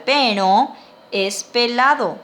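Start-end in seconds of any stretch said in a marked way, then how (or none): 0.0-0.8 "pero" with a stressed nasal final O; nasal accent. Shown as a demonstration. Teacher repeats the word for bald, nasal accent. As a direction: send the last O of "pero" through the nose. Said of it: "tiene acento nasal".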